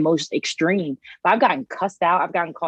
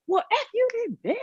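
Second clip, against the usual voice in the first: mocking rejected dude; 3 dB quieter than usual. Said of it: "they're like".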